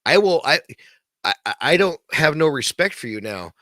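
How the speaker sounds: mock outrage, telling him off; angry retort. Podcaster yelling at the actor he lost respect for, angry. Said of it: "It's like".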